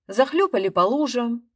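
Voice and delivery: usual speaking voice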